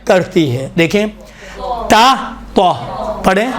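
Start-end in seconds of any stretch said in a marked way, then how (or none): 1.9-2.7 تا thin, then تو thick with rounded lips; thin then heavy t. Shown as a demonstration. Teacher showing students thin versus heavy t. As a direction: contrast تا and heavy تو. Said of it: "تو نہیں ہے علامہ، تو ہے".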